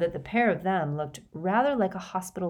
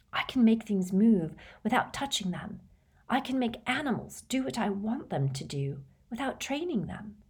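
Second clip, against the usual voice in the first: hushed, eager confession; half-whispered, feverish eagerness; fevered excitement; 4 semitones higher than usual. Acted. Boy telling of his powers, hushed and fevered. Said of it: "He looked fevered".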